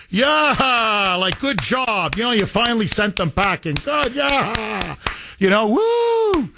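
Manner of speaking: high, mocking cheer ending in a long woo; mock cheering kids. Kids gloating at the dispersed group, cheering high.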